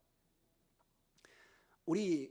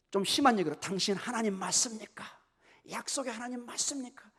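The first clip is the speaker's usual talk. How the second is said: aggrieved protest, with emphatic bursts; acted complaint to God; 5 dB louder than usual. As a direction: reproach God as the wronged believer. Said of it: "하나님 앞에 크게 불평을 내려놓습니다". (하나님께 불평하는 흉내)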